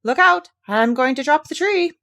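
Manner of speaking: exclaiming. A narrator's reading. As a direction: shout a warning as the tree slips. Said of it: "and exclaimed".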